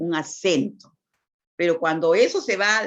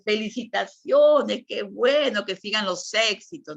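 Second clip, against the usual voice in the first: happy congratulations; 4 semitones higher, 3 dB louder than usual. Shown as a demonstration. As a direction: celebrate someone's graduation gladly. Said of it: "ya te titulaste". (felicitación alegre y más fuerte)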